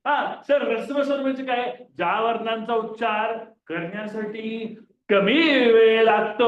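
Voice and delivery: slow recitation swelling loud on "कमी वेळ लागतो"; drawn-out classroom recital with a loud finish; changed teaching tone. Shown as a demonstration. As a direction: recite the definition in a livelier tone, stretching it out. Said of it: "मी माझा थोडा tone बदलतो".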